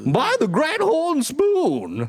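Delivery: put-on high, very slow old-timer prospector. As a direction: drag it out like a gold miner. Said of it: "old prospector voice".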